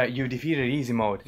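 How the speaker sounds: American accent. Shown as a demonstration. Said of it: "like, main American".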